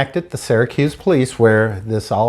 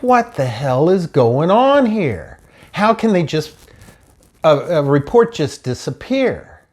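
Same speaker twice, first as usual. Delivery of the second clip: exasperated; 4 semitones higher than usual. Retold or imitated. Exasperated at missing report.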